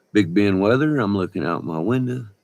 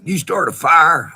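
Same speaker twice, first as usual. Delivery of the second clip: higher, louder, pressing question; retold loud challenge from the park guy; loud demanding question; 10 semitones higher, 9 dB louder than usual. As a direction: demand an answer from him. Park guy questioning him loudly.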